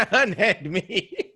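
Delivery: slow, high, laughing mock plea; mock damsel cry. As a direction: drag it out like a fainting damsel.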